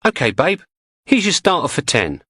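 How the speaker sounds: mock quiz host menace. Cheery menace, rushing the warning.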